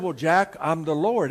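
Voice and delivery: lightly voiced Lord, a bit low; understated, low divine reply; God's voice from above. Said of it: "And the voice said".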